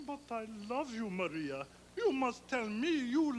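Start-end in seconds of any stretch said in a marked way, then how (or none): 0.1-1.7 soft, lowered plea of love; quiet. Acted. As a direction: keep the declaration down, sinking at her name. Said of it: "I will say it quiet".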